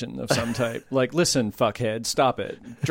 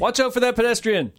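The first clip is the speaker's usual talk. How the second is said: high-pitched called-out warning; mock shout; 10 semitones higher than usual. Shouting out random things to driving listeners, high mock warning. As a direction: cry out a sudden joke warning. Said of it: "keep shouting out things".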